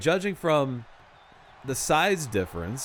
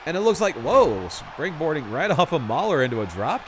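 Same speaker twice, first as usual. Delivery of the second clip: sudden loud whoa; wrestling commentator; 3 semitones higher, 3 dB louder than usual. Real, not acted. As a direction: caught off guard mid-call. Calling a sudden move.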